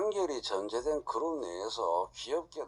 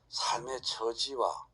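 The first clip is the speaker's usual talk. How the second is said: usual speaking voice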